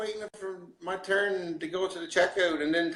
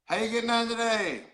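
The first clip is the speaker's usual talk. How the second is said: higher, run-together Newfoundland greeting; lilting Newfoundland accent; Newfoundland phrase; 5 semitones higher than usual. Shown as a demonstration. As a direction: demonstrate a Newfoundland accent for repeating. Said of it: "we'll try it again".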